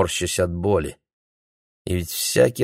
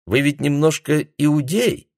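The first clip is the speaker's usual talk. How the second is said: taunting question; 9 semitones higher than usual. Acted. Gerti taunts him.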